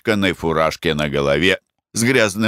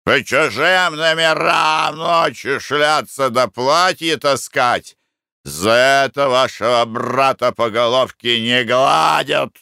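accusing shout; 5 semitones higher than usual. A narrator's reading. Corridor attendant shouts at the guest he takes for a thief. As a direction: yell at him like he caught a thief. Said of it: "закричал тот".

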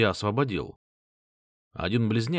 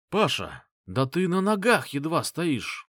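exclaiming; 6 semitones higher than usual. Acted. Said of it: "воскликнул он".

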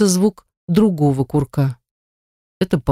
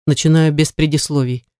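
usual speaking voice

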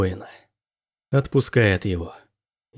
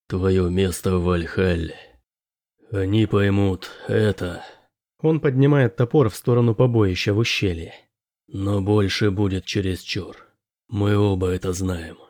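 low and tender; 3 semitones lower than usual. Acted. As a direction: soften it like a parting father. Father refuses son, gently.

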